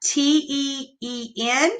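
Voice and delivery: letters T E E N named slowly; slow spelling demo; spelled out. Shown as a demonstration. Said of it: "There's a pattern".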